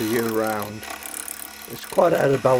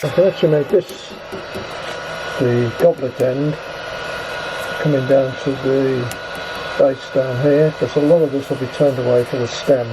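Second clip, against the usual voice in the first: speaking through a protective mask; muffled, behind a full face shield. Real, not acted. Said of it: "My apologies for the slightly muffled commentary".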